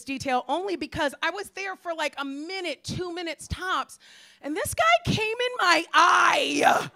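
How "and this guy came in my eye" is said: outraged shout. Real, not acted. Outraged about the incident.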